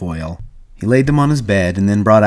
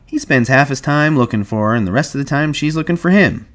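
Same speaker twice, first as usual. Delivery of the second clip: wry, higher-pitched jibe; sarcastic; 5 semitones higher than usual. Acted. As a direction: make a sarcastic crack about the couple. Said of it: "Whit said sarcastically".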